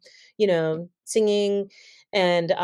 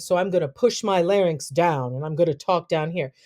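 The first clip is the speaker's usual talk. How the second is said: pushed-down voice. Shown as a demonstration. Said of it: "I'm trying to sound authoritative".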